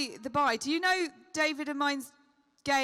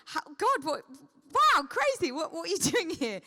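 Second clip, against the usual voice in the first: gushing fan; 2 semitones higher than usual. Retold or imitated. Fan meeting John Barrowman at the airport, mock gushing. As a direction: act out the star-struck fan. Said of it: "she was like".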